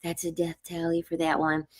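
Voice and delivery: softly under her breath, as if only to herself; whispering a death threat to herself about a patient; retold whisper. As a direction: drop the voice for a creepy aside. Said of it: "whispered to myself".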